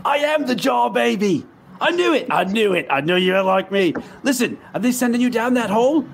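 thrilled to find a kindred mind; excited recognition. Acted. Player excitedly answers in character.

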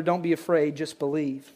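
soft, hushed words of comfort; a hushed reassuring voice of Jesus; gentle Jesus. Acted. Jesus's words read softly.

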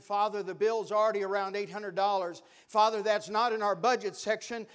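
a retold prayer building to a loud plea; pleading prayer. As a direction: pray it out, pressing harder each line.

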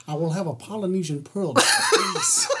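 mock-grand order, laughing at the end; pompous tourist. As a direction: play a fussy vacationer ordering. Playing a pompous beach tourist.

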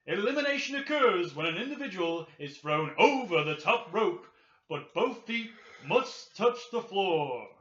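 a hint of the booming Rumble announcer; Howard Finkel. Co-host reading the Rumble rules as the ring announcer. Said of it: "acting like I'm, uh, Howard Finkel".

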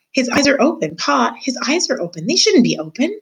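a little brother calling out to Pa; excited child. Acted.

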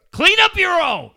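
high laughing yell; laughing jab yelled at a rival; laughing shout. Acted. Mock scolding absent colleague, laughing.

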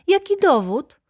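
very high, loud demand; challenging cry. A narrator's reading. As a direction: cry out for proof as an agitated baroness. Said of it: "zawołała baronowa". (wysoki, głośny okrzyk żądania)

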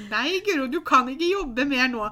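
firm loud no. Retold or imitated. Friend firmly stops her working.

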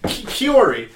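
KIORI with the ending said as "ee"; imitated mispronunciation. Complaining about how a friend says a name, mispronounced Kiori. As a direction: imitate his mistake, Kiori for Kiora. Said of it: "He pronounces Kiora Kiori".

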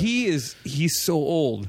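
slow, stretched mock-pitying "so old"; drawn-out teasing. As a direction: stretch the "so" as if marvelling.

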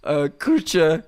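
halting mock German accent. Bearing a joke testimony at church, halting German accent. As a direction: grope for words in a German accent. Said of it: "I wanna hear your German accent now".

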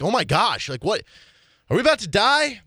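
rising to a high panicked squeak; mock panic. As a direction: play the scared passenger, voice climbing. Retold panic on shaky flight.

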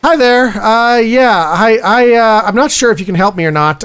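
lightly voiced polite caller; a hint of an unsure customer; hesitant customer on the phone.

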